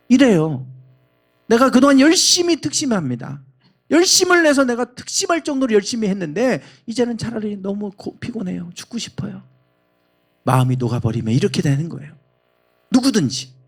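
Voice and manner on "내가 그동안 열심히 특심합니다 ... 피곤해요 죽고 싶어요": weary despair. Acted. Elijah voiced in despair.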